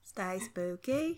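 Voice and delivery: slow, soft Australian sign-off with a rise; quiet Australian uptalk; mock Australian. Shown as a demonstration. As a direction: drawl it Australian, going up at the end. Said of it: "That's how you make anything Australian".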